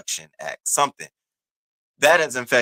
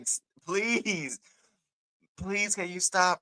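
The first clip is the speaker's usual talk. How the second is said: pleading through laughter; 9 semitones higher, 5 dB quieter, slower than usual. Retold or imitated. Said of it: "'cause I was back here crying".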